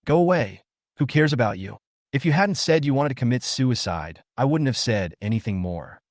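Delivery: a touch of anger, sharp on go away; mildly angry retort to a teasing boy. Acted. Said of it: "said angrily".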